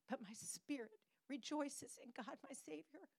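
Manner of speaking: "Savior" breathed very soft and lifted; hushed praise. Acted. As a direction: let "my Savior" fall to a soft, rising hush. End of quoted praise.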